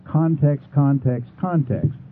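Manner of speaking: context, context, context, each hammered in turn; insistent repeated context; stressing context. Shown as a demonstration. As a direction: drum the word context home three times. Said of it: "What is the context".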